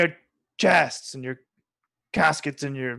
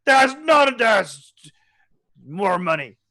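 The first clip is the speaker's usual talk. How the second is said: high-pitched; 5 semitones higher, 6 dB louder, slower than usual. Acted. GM voices NPC checking jar.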